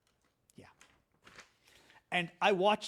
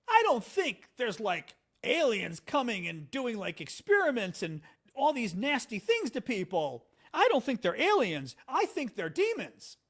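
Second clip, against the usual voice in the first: straight-faced insistence, higher and louder; JD Vance; 5 semitones higher, 5 dB louder than usual. Retold or imitated. Host quoting politician on aliens, mock-earnest. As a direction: retell it earnestly, punching each claim. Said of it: "Straight face".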